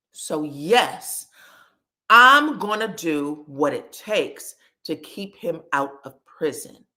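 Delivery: low, measured, with long pauses; firm resolve. Retold or imitated. Mother defending keeping her son from prison, firm resolve. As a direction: lay it down low and deliberate.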